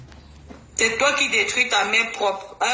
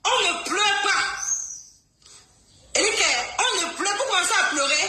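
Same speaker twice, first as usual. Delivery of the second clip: higher, sing-song taunting; mocking taunt; 5 semitones higher than usual. Real, not acted. Taunting the other side for crying, higher sing-song mockery. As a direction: tease them about crying. Taunting opponents in live clash.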